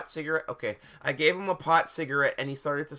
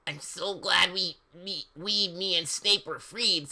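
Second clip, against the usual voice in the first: high-pitched put-on character voice; Lupin's voice; 5 semitones higher than usual. A narrator's reading. Lupin glad to be freed, in a high put-on voice. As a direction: raise it into a high, louche cartoon voice. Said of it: "said Lupin".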